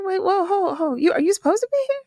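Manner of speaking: high, fast, startled disbelief. Retold or imitated. Host acts the guest's shocked look at the wrestling event. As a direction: rush it out like a surprised double take. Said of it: "looked at me like I was like".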